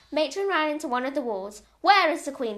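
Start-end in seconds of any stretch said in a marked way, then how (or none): 1.8-2.6 loud, forceful question; demanding. Acted. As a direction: demand an answer. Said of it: "she demanded".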